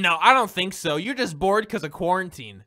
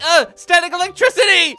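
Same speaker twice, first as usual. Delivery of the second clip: high, loud mock cry from her; mock yelp; 10 semitones higher, 9 dB louder than usual. Gamer voicing a woman zapped by his power, mock yelp. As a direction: squeal it as the shocked woman. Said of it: "She's like".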